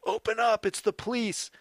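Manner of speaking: retold police shout. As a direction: bark it like a cop at the door. Cops pounding on the door.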